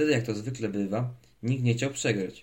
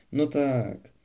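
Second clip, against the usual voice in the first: puffed out; 4 semitones higher, 4 dB louder than usual. A narrator's reading. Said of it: "sapał Nudzimiś".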